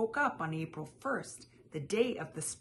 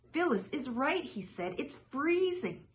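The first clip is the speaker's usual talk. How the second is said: mock shivering; 8 semitones higher than usual. A narrator's reading. Phil Junior pretending to freeze.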